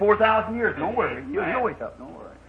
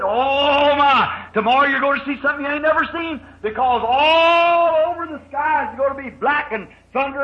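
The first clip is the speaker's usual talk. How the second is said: excited warning; 4 semitones higher than usual. Acted. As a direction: warn them of the coming storm. Noah excitedly warns his family.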